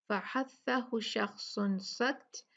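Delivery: slow फहस्सहु शख्सुन सख्त with airy consonants; hams mnemonic. Shown as a demonstration. Teacher giving a memory phrase, slow measured फहस्सहु शख्सुन सख्त. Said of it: "इसको याद कर लीजिए इन अल्फाजों से".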